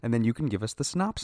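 put-on fast, talking down like to a child; condescending. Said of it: "Why are you talking to me like a child?".

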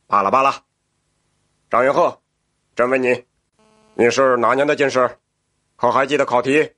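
emperor voice. Acted. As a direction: speak as a curious emperor. The emperor questions the prisoner.

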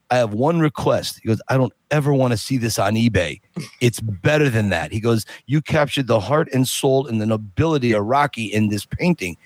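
low, mumbling Stallone impression. Stallone's request and praise.

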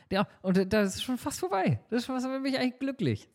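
high, laughing delight. Real, not acted. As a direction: laugh it out happily. Laughing about being almost there.

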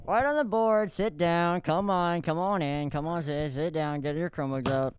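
a hint of a bossy teacher; lightly voiced stern teacher; Karen voice. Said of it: "more of a Karen".

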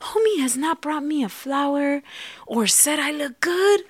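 jumps high in pitch, a playful mock outrage; mock indignant realization. Wife suddenly noticing her husband's neglect, mock indignant and high. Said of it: "we're like".

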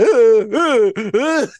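mock sobbing noises, rising in pitch; imitated kid crying. Comic retelling of a kid in the corner, mock crying. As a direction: imitate a little kid's halting sobs. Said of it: "kid in the corner crying".

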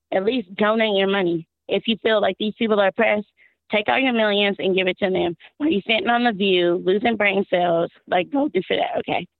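hoarse, strained voice; talking with a worn-out voice; lost voice. Real, not acted. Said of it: "my voice is lost".

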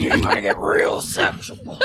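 whispered very high mock-seductive line; breathy falsetto sexy voice. Teasing the listeners, unvoiced squeaky sexy voice. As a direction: tease in an airy squeak. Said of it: "that's how I sound".

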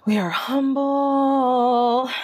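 a slow, solemn whisper; slow whispered mantra. Real, not acted. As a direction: whisper it like a vow.

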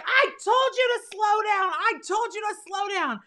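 high, whiny-angry mock scolding; scolding sister. Sister hitting her after the crash, mock high-pitched scolding. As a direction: imitate an upset sister telling someone off.

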